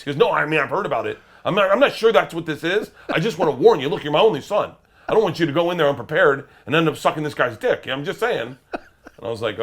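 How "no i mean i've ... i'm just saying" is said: dad's warning. Retold or imitated. Dad warning son, retold.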